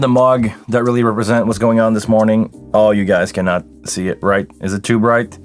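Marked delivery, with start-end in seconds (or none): none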